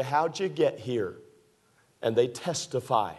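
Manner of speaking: preacher building the point, rising and falling; preaching. Acted. Preacher warning the church about slipping, preaching. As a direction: preach it to the congregation.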